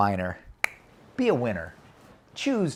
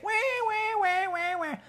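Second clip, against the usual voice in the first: very high, softer wah-wah wail; mock whining; 5 dB quieter than usual. Shown as a demonstration. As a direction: imitate a whiner in a squeal. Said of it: "hear somebody complain".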